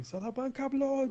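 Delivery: high, distant-sounding mock scream.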